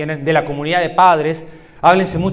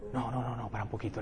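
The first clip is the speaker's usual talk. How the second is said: much softer, calm no-no-no; stopping the patient; 5 semitones lower, 16 dB quieter than usual. Retold or imitated. Psychologist softly stopping a patient sending a message. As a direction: hold him back gently and quietly.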